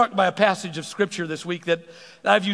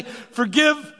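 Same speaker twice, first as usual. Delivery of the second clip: forceful preaching; 6 semitones higher, 5 dB louder than usual. Real, not acted. Preaching climax.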